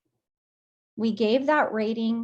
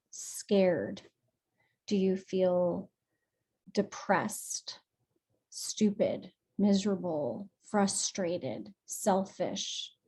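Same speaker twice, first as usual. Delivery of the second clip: whispered; 4 dB quieter, slower than usual. Real, not acted. Listing emotions softly.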